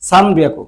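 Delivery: সানবিয়াকু with a distinct n before the b; n pronunciation. Shown as a demonstration. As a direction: keep the n clear in সানবিয়াকু, "san-biaku". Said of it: "এন এর উচ্চারণও বলেন সমস্যা নাই". (সানবিয়াকু-তে স্পষ্ট ন উচ্চারণ)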